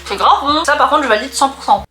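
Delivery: thrilled by the taste; excited. Real, not acted. Delighted tasting reaction.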